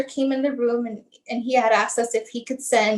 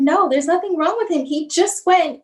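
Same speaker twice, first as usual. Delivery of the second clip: higher insistent protest, retold; defensive denial; 4 semitones higher, 4 dB louder than usual. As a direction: push back firmly, re-enacting the argument. Mother arguing back in denial.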